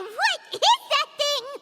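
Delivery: startled question. Acted. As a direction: stare at the strange thing and ask it warily. Spooked by the mechanical guide.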